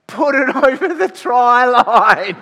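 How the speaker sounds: high, stretched-out full-volume holler; imitated frantic dad yell, very loud and slow; dad screaming. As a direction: urge your kid on from the sideline at the top of your lungs. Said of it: "screaming at the top of his lungs".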